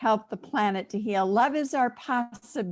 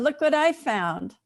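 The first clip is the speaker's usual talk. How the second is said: put-on higher-pitched child showing a find; excited little boy; 5 semitones higher than usual. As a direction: voice a young boy's eager discovery. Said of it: "a little boy".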